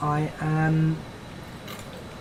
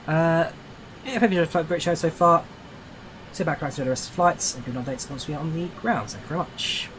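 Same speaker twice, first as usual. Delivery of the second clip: pilot's PA to the passengers; calm captain announcing descent; plane cabin announcement. Shown as a demonstration. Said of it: "one of the worst announcements I've ever made".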